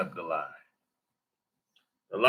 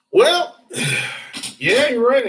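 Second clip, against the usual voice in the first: exclaiming; 11 semitones higher, 5 dB louder than usual. Real, not acted. Reacting to viewer comment.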